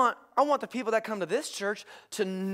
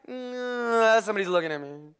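hammed-up shy mumbling; mock reluctance. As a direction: act out a self-conscious, reluctant worshipper. Acts out timid worshippers in church.

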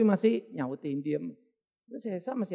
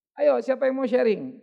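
louder, slow call to the audience; slow, raised call for volunteers; 2 semitones higher, 6 dB louder than usual. Retold or imitated. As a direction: invite the crowd to share. Preacher calling out to the room.

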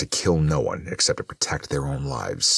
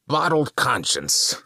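very high, slow toothy exclamation; Carnage crying out; 11 semitones higher, 3 dB louder, slower than usual. A narrator's reading. Carnage reacting to Morrison's sample, drawn-out high cry. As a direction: relish it loudly through a wide grin. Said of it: "Carnage cried with a pointy-toothed smile".

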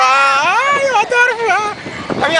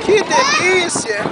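blissful; much slower than usual. Real, not acted. Enjoying the ride slowly.

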